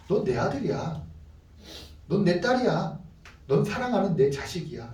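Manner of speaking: soft, simple affirmation; quietly sincere parental voice; parent's gentle declaration. Acted. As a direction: tell your child this tenderly, pausing between statements. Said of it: "선포하는 거예요".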